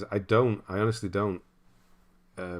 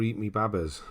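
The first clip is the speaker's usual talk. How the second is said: put-on "eat me babbers" in a Bristol accent, falling; a light go at a Bristol accent. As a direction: Bristol accent, half-hearted. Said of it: "adopt the Bristol accent".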